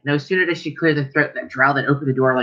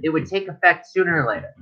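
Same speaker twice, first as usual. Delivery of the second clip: grandfather; 5 semitones higher than usual. Acted. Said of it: "your grandfather looks at you and goes".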